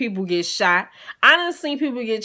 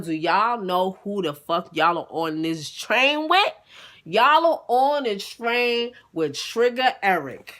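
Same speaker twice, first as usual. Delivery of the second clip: mock announcement to train; slower than usual. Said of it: "I stood up".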